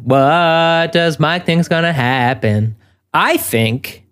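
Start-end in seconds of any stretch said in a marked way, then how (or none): 0.0-2.8 slow, drawn-out segment title; announcer voice. Pretend. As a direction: echo the title like a show bumper. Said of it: "That's pretty good".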